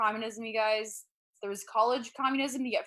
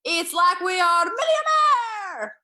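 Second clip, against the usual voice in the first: put-on higher, louder, slow Romanian-accented cheer; dad celebrating a good moment, accented; dad's accent; 8 semitones higher, 8 dB louder, slower than usual. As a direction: gush like a proud Eastern European dad. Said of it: "he'd be like".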